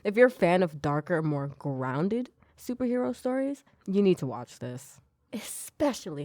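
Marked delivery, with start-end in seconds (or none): 5.3-6.2 "Especially" set apart, higher-pitched; stand-alone, emphatic "Especially" with a falling end; pointed emphasis. Real, not acted. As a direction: lift "Especially" up and let it fall. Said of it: "I say it like that".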